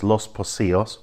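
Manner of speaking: Los Pocios as los po-SEE-os. Shown as a demonstration. Guide explaining the beach name, C pronounced as S. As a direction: say Pocios with S and a Y glide. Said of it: "an S sound in Spanish".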